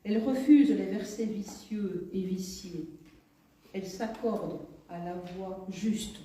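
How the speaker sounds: measured poetry reading in short, paused phrases; expressive reading of one's own poem; poem recitation. Acted. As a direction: recite it line by line, lifting each opening and letting the endings fall. Reads her own poem aloud.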